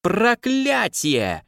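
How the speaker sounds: a high, slow, drawn-out curse; barked curse. Acted. The girl curses as she scrambles up the tower, barking. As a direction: spit the curse out like a wet cat. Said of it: "рявкнула девушка".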